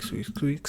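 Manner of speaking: "squeak, squeak" breathed out as a soft whispered mouse noise. Retold or imitated. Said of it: "all I can hear is squeak".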